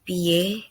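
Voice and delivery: piye said the Semarang way, slowly, as two syllables; Semarang word. Shown as a demonstration. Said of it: "Semarang accent gonna use".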